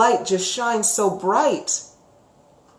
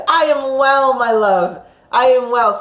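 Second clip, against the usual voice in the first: affectionate reply; 4 semitones higher, 6 dB louder than usual. Real, not acted. Answering a viewer's greeting warmly.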